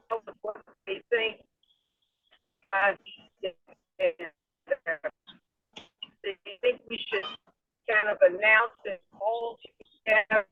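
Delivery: choppy, cutting-out phone line; radio breaking up. Real, not acted. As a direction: voice dropping out over a bad car connection. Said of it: "You're breaking up".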